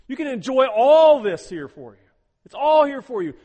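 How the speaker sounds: high, loud, open-handed offer; generous offer. Pretend. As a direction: proclaim the gift warmly and loudly. Voicing God's generous offer.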